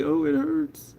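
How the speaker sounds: high little whine of pain; imitating herself hurting; mock pained. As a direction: put on a high 'ouch' complaint. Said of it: "I'll be like".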